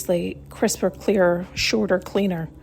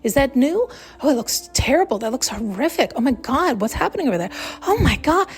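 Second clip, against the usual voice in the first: mock gawker; 4 semitones higher than usual. Gawking at a car crash.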